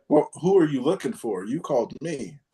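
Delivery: swooping, incredulous retort to a caller; mock challenge. Retelling a reply to a scam caller, pointedly challenging. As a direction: turn the question back with big pitch swings.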